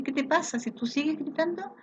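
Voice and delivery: teacher standing up to a shouting parent; firm confrontation. Retold or imitated. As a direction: confront her to stop the shouting. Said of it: "En el fondo yo nunca hablo así".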